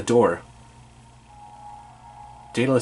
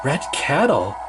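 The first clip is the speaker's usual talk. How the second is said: put-on higher girl voice; Annabeth voice; 4 semitones higher than usual. Annabeth explains the red cattle to Percy, higher. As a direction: clever girl explaining, pitched up.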